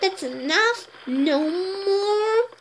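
slow, firm parental warning; firm stop. Real, not acted. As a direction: lay down the limit slowly and calmly. Adult stops child touching things.

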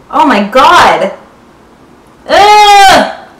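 biting candy stick; tasting strong candy; candy at lips. Real, not acted. Seen 2: Green candy held to lips, bitten from 3.5s, grimacing.

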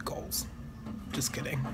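stiff cheeks, limited smile; through a gel face mask. Real, not acted. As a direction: lips moving inside mask opening. Seen 1: Clear gel sheet mask covers whole face, mouth cut out, throughout.

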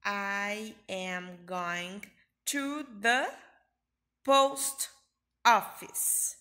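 teacher modelling a sentence; slow drill. Shown as a demonstration. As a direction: build to a loud post office. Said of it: "eu digo".

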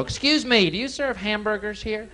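high, prim dad asking at the counter; squeaky embarrassing dad; mock polite dad voice; dorky dad voice. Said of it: "Walk into McDonald's and go".

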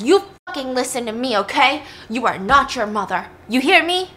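mild mock yell, firm and scolding; retold angry screaming. Dad lays into his daughter, understated retold screaming. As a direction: imitate a scolding dad, rising at the end. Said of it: "starts screaming at her".

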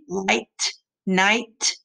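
"Light, night" with the -ight ending leaned on; ending sound stressed. Shown as a demonstration. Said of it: "Does it sound the same?".

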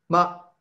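very short MA, pitched high here; a brief MA with no glide; neutral tone. Shown as a demonstration. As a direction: toss off a quick, light MA. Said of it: "Y tono neutro".

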